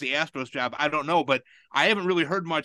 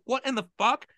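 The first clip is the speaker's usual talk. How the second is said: incredulous outburst; 9 semitones higher than usual. Retold or imitated. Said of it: "I was like".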